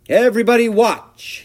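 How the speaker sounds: very high, loud shout for attention; excited cry. A narrator's reading. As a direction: call everyone to watch a big stunt. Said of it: "he cried".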